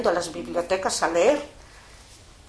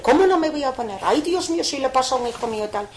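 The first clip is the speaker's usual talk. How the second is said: higher, louder tearful outburst; upset crying protest; 4 semitones higher, 4 dB louder, faster than usual. Retold or imitated. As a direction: protest through sobs, rushing the end. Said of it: "pero llorando". (protesta llorosa y alterada)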